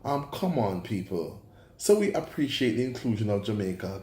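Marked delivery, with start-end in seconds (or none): 0.0-1.4 "come on, people" falling and dropping off softer at the end; fed-up plea. Real, not acted. Reviewer scolding fake accents, weary falling plea. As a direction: let it sag with weary disgust. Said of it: "Those horrible Jamaican accents".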